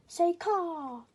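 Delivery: father crow calls out a high, loud caw; loud caw demand. Acted. Father teaching his son, a loud caw. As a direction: belt out the caw to teach him.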